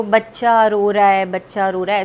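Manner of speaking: hammed-up crying, dragged out; mock crying plea. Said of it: "ऐसे करके खुद रोए जा रही".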